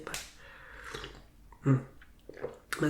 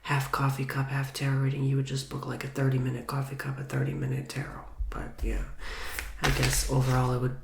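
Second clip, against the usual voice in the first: ASMR whisper. Real, not acted. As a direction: whisper close to the mic, gently. ASMR tarot reading, whispered throughout.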